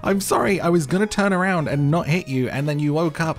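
real jolt of fright, words tumbling out; startled panic. Real, not acted. Player apologizing to villager they just hit by accident, panicked and high.

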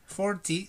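"forty" with an "or" sound, no u; forty without u. Shown as a demonstration. Teacher correcting students: "forty" said without a u. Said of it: "sin la U".

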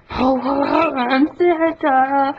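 slow jolly ho-ho voice; Santa voice. Pretend. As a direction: laugh it out like a jolly old man. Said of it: "One hundred impressions".

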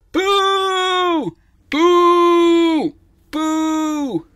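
very high, loud drawn-out boos; booing crowd. Acted. The people jeering at Gwen, loud high boos. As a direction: boo her like a jeering mob.

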